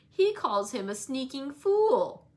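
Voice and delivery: loud, drawn-out insult; crying out. A narrator's reading. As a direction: hurl it as a childish taunt. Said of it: "cried Linton".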